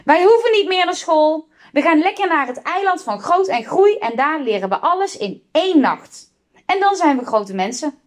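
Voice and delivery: put-on defiant children's high-pitched reply; calling back. A narrator's reading. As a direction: call back cheekily as kids refusing an order. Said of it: "riepen terug".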